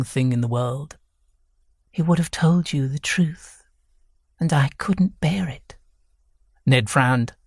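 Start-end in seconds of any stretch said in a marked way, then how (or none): 1.9-5.8 higher-pitched, distressed woman's voice; quavering older wife. A narrator's reading. Wife confesses to her foster son, distressed. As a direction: confess it with a slight waver. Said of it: "Her quavering voice".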